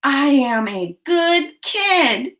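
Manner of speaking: put-on slow count-along "I am a good kid"; stretched-out words for "I am a good kid". Shown as a demonstration. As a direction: say "I am a good kid" slowly, each word distinct. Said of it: "a finger in the air for each word".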